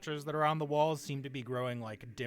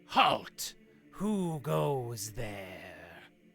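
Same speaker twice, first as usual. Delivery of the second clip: sinister, evil voice, very slow and drawn out; 3 semitones lower than usual. A game master voices someone calling out to players entering a room, evil-sounding. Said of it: "you hear an evil-sounding voice go".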